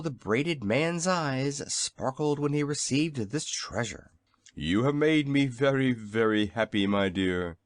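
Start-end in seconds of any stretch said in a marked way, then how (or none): 4.5-7.6 exclaiming happily. A narrator's reading. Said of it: "he exclaimed".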